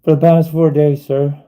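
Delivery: pleading reply. Pretend. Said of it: "Be like".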